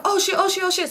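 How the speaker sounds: high, repeated panicky exclamations; retold panic. Retelling her panic after the crash.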